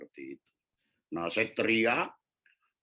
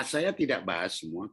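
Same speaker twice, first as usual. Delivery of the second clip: ordinary delivery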